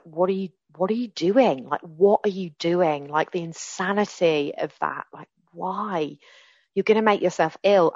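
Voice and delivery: imitating her husband's incredulous what are you doing; husband's alarmed questioning. Husband catches her juicing onions, mock incredulous.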